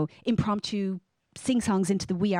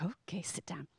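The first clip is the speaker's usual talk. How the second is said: hushed, lower mother's reply; quiet compliance; 3 semitones lower, 14 dB quieter than usual. Retold or imitated. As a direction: give in softly to a toddler. Mother obeys her insistent toddler.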